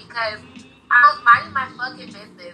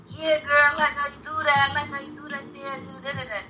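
lightly voiced sleazy guy, a bit higher; creepy guy in her ear; 5 semitones higher, 3 dB quieter than usual. Retelling the man who grabbed her, mock sleazy murmur. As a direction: mimic a leering stranger murmuring close. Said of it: "he's all in my ear talking about".

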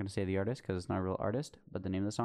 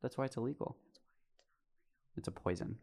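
whisper; 5 dB quieter, faster than usual. Pretend. Mock preachy whisper.

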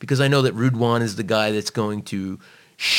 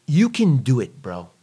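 pep talk; 3 semitones higher, 4 dB louder than usual. Retold or imitated. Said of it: "If I told you".

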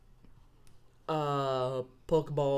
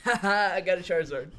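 lightly mocking dad's gloat; imitating gloating laugh; faster than usual. Player mimics dad bragging from Asia, mock gloating. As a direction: put on a little fake "ha ha" boast. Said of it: "my dad's over there laughing like".

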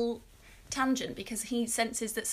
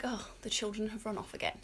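mock unbothered; 7 dB quieter than usual. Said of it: "everyone's just like".

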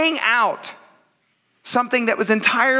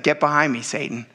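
lower, fading firm command; stern rebuke; 6 semitones lower than usual. Retold or imitated.

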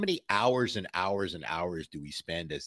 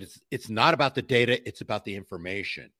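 analyst on stage; 3 semitones higher, 6 dB louder than usual. Retold or imitated. Analyst addressing the whole audience, mock declaration. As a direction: imitate a speaker rallying an audience. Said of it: "She said".

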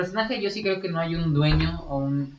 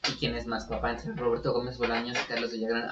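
voice cracking; 2 semitones lower, 5 dB quieter than usual. Real, not acted. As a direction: voice cracks mid-question. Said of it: "Ahí se me salió un gallo".

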